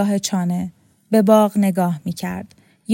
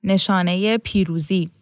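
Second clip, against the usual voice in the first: mysterious smile. A narrator's reading. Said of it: "تبسمی مرموز کرد".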